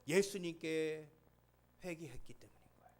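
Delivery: whispered punchline after the shouting; sudden whisper. Acted. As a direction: pull them in with a hushed answer.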